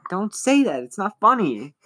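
high, upset plea; scared girl, pitched high. Retold or imitated. Girl on the phone pleading with the librarian, high and upset. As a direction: beg him to stop, voice up high.

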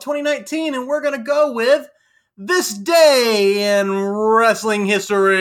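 dramatic show-segment announcement; announcer voice. Acted. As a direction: boom it out like a TV segment intro. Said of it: "Chris told me last time I didn't do a good job".

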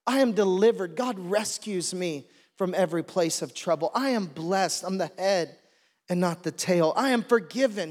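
proclaiming each I am with conviction; rising preacher's declarations; bold declarations. Shown as a demonstration. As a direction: declare it like you believe it. Demonstrating daily declarations.

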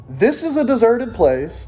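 exasperated disciples reading out a complaint; annoyed, emphatic Bible reading. Acted. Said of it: "Do you hear the annoyance?".

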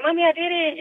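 high, tearful retelling; close to tears. Retold or imitated. Daughter phoning mom after wrap, close to tears. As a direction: break the news in a high, choked-up voice. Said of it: "And then I started crying".

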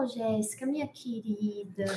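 a light imitation of a calm, formal friend. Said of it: "é bem calma".

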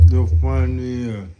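loud, slow you're funny; loud slow reaction. Real, not acted. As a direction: drag it out loudly, amused. Laughing reaction to joke.

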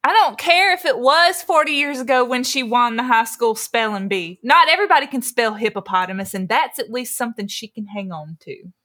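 put-on Southern accent. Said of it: "I'm gonna read the Southern insult".

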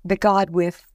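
real crying through the words; snotty crying. Real, not acted. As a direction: push on while crying. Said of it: "I'm doing an ugly cry".

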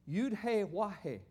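"Yud He Wah He" as four separate letter names; Hebrew letter names. Shown as a demonstration. Teacher repeating the Hebrew letters for the congregation, pronunciation demonstration. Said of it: "That's how the letters would be pronounced".

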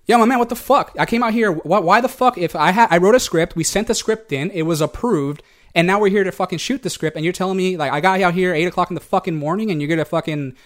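re-enacted frustration, building a case; retold prickly protest. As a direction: argue back, indignant at being turned down. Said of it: "me puse arisco".

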